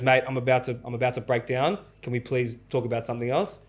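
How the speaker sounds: flat, even, no rise or fall; monotone. Retold or imitated. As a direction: say it dead level, holding it in. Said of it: "he said it in the same monotone".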